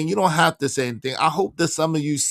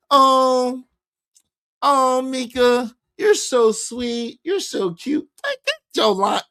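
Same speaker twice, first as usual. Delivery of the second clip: mocking sweet-talk; 6 semitones higher than usual. Mocking the guest's version of Anton, higher and syrupy. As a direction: coo it like a lovesick nerd. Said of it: "Anton don't talk like".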